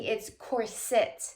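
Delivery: "corset" said slowly as COR-sit; slow correction, "corset" stressed on COR; stress on first syllable. Retold or imitated. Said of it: "Putting the emphasis on the first syllable".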